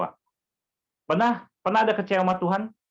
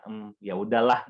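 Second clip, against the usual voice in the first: slow, lower, giving in with a sigh; reluctant, grudging; 6 semitones lower, slower than usual. Retold or imitated. Preacher mocking a grudging giver, slow and reluctant. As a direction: say it like you're forced to give. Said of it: "Itu kayak seperti terpaksa".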